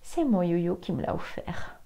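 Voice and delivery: playful whispered confidence; conspiratorial whisper. Real, not acted. Tarot reader confiding to female viewers, teasing whisper.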